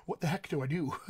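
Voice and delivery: laughing through the question. Real, not acted. Coach joking about a learner's predicament, laughing. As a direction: break into a chuckle as you ask.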